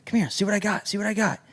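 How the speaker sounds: tempter. Acted. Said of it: "the wicked are like".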